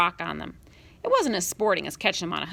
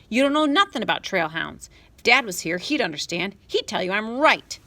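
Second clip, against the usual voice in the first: huffy anger; 2 semitones higher, 4 dB louder than usual. Acted. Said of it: "Adam huffed at Sam".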